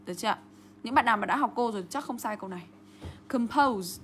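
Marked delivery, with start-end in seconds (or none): 3.3-4.0 com-POSE, weak first syllable; stress on second syllable. Shown as a demonstration. Teacher demonstrating word stress, Compose as com-POSE. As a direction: lean on the long OH in Compose. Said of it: "trọng âm rơi vào âm tiết số hai".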